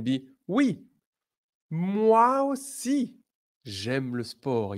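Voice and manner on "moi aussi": excited. Shown as a demonstration. Enthusiastic model answer.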